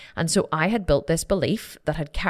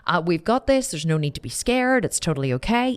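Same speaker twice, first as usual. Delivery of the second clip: put-on bravado; 5 semitones higher than usual. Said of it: "put on this bravado for Carol".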